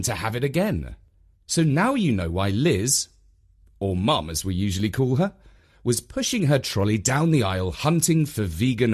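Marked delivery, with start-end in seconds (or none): none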